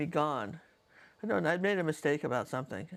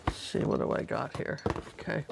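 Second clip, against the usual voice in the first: whispered to herself; 3 semitones lower than usual. Real, not acted. Searching her craft supplies.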